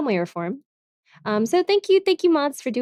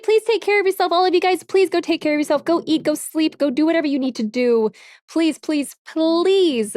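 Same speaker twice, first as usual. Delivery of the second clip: higher, earnest begging; pleading; 4 semitones higher than usual. Real, not acted. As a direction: urge them to rest. Pleading viewers to rest.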